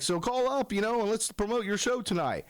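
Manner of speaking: high, eager promoter. Retold or imitated. Friend asks him to call in, eager high voice. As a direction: imitate a buddy urging him on. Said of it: "he's like".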